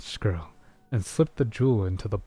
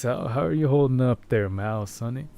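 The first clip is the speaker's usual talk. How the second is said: cowboy voice; 2 semitones higher than usual. Pretend. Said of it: "I could read in my old, uh, cowboy voice".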